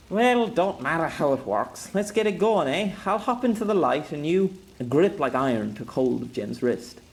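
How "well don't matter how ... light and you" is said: higher, brisk soldier giving orders; gruff commander voice; commanding officer. Acted. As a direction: rattle off orders to the squad. Jem eager to fire.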